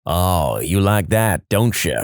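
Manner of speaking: low, suggestive moaning delivery; hammed-up seductive moan; mock moan. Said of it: "moans, and says".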